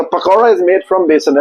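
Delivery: slow, careful English sentence; slow English demo. Retold or imitated. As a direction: read it out slowly like a model line. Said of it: "ऐसे बोलते हैं".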